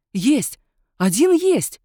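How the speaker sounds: excited cry, rising high and loud; exclaiming. A narrator's reading. Ditrikh exclaims, finding a match in the file. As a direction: shout out the find. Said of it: "воскликнул".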